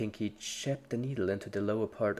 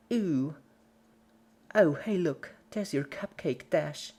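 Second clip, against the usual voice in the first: high, loud and chipper; creepy cheerful Pinkie; 6 semitones higher, 3 dB louder than usual. A narrator's reading. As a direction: cheerfully point something out. Pinkie pointing out.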